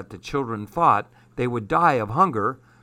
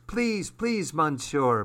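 put-on high, pleading little girl; begging; 4 semitones higher, 4 dB quieter, much slower than usual. Evelyn begs Armand for the monkey, high pleading. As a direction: beg sweetly. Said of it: "begged Evelyn".

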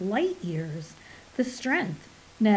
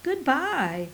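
sneer; 5 semitones higher than usual. Acted. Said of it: "Portical sneered unfeelingly".

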